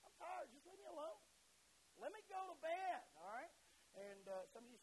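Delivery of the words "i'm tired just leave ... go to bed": tired spouse. Retold or imitated. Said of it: "I've heard that".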